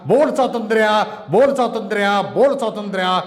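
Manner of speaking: impassioned protest poem, rising and falling; poem recitation. Acted. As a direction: declaim it like a rally poet. Poet recites his poem.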